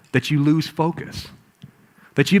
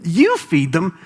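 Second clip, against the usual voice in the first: disbelief; much slower than usual. Acted. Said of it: "imagine the look on their faces".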